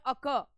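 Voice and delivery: "अक" said carefully as uh-KUH; careful pronunciation. Shown as a demonstration. Teacher modelling the word for students, careful "अक" with silent r. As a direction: pronounce "अक" cleanly, final r silent. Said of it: "pronunciation भी बिल्कुल सही होना चाहिए".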